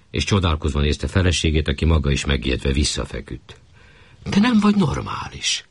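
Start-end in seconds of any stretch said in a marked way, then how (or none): 4.3-5.6 much higher, throwing his words back at him; mocking echo. Wife mockingly repeats her husband's insult.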